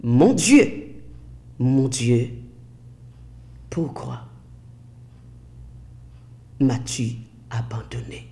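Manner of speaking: soft, fading plea, phrase by phrase; hushed translation. Retold or imitated. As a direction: let it sink almost to a whisper. Slow translation of the cry.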